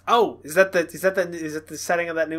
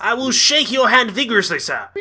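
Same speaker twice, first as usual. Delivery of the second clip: fake British accent; 8 semitones higher, 6 dB louder than usual. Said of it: "That accent".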